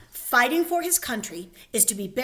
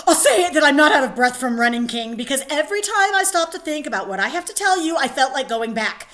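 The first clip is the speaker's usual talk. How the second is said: fast, louder nervous babble; nervous sentry; 5 dB louder, faster than usual. Acted. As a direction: rush it out like a scared soldier. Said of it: "he's totally nervous".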